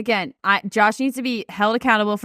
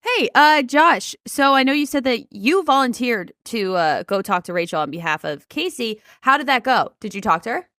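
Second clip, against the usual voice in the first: playing Michelle; 4 semitones lower than usual. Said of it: "you be Michelle".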